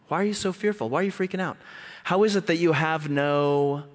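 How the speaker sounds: incredulous acted scolding; exasperated rebuke. Jesus rebuking the frightened disciples.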